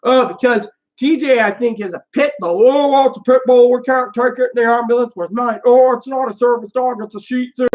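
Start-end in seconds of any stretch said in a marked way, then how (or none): 2.7-7.7 raised-pitch parody of excuses; mocking imitation. Ambulance crew refusing the service dog, mocking imitation. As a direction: mimic a fussy refusal in a higher voice.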